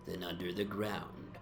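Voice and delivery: rollicking verse, lightly slurred and merry; tipsy drinking song recital. Acted. Young man declaiming an eighteenth-century drinking song at breakfast, rollicking and lightly tipsy. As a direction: raise your tankard and recite it with a touch of drunken swagger. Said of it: "declaiming in palpably licorice accents".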